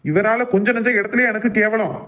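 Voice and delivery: angry venting about being shamed; angry rant. Acted. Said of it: "ஏன் இப்படி கத்துதான்".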